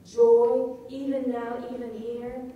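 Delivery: JOY burst out loud, then EVEN NOW, EVEN HERE evenly stressed; doubled emphasis. Shown as a demonstration. Lecturer contrasting emphasis with slackness, emphatic JOY, EVEN NOW, EVEN HERE. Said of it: "Double the amount of emphasis".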